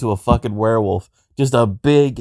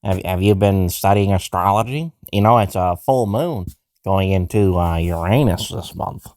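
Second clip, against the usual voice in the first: lower, halting put-on white-guy voice; dorky white voice; 3 semitones lower than usual. Shown as a demonstration. Trying out a chat-up line on Jenna, dorky white voice. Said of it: "I wonder if I can do a white voice".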